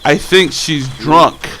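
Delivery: slow, hesitant suggestion; tentative classmate. Retold or imitated. One of the kids explaining the teacher, slowly. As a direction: imitate a kid slowly offering a theory. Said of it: "one of the kids is like".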